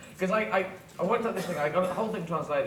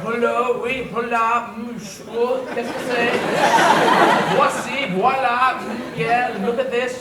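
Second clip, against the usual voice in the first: lively high shop talk, a notch louder; excited shop chatter; 5 semitones higher, 6 dB louder than usual. Retold or imitated. Shops gush over the latest find. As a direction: gush like magazines on display. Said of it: "tous les magasins go".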